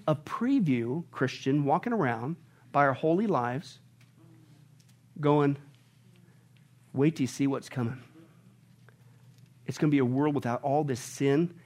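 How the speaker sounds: soft, intimate near-whisper; hushed. Real, not acted. Pastor urging the church to be a preview, hushed and soft. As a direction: draw the congregation in softly. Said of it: "softens to a near whisper".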